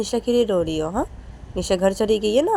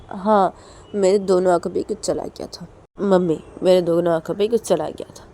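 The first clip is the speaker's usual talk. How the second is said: insisting daughter; 6 dB louder than usual. Acted. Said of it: "तो मनीषा बोलती".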